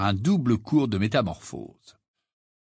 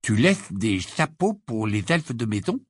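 slowly. Acted. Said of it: "dit lentement Ron".

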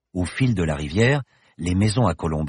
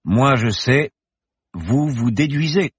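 cutting; 7 semitones higher, 5 dB louder, slower than usual. Acted. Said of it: "Bergton enfonça le clou".

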